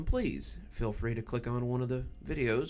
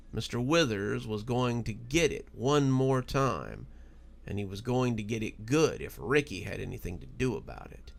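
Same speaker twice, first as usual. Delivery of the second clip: measured storyteller reading a spooky tale; story narration; slower than usual. A narrator's reading. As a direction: draw listeners into the story, unhurried. Reads a spooky story aloud.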